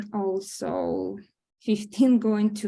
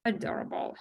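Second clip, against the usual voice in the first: breathy whispered aside; 7 dB quieter, faster than usual. Acted. Grandmother whispers an aside about the siblings. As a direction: whisper it fondly so no one hears.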